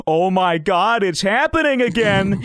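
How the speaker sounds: high, loud mimicry of tripping panic; freaked-out amazement. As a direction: exclaim it like the trip just hit again. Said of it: "Like that".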